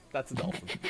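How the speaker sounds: squeaky dolphin voice, eerie like a ghost; a dolphin that sounds like a ghost; dolphin impression. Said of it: "Why do I sound more like the ghost".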